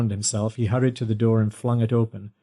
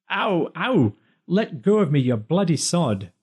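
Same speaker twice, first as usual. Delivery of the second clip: wailing; 7 semitones higher than usual. A narrator's reading. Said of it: "Rob wailed".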